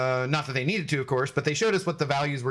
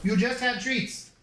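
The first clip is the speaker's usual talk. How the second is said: 1 pet scolding; 6 semitones higher than usual. Real, not acted. Scolding dog.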